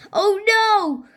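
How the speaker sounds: high, dismayed exclamation; alarmed cry. A narrator's reading. Cheeseball seeing the dog run after them, alarmed cry. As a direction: cry out high in storybook panic. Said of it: "cried Cheeseball".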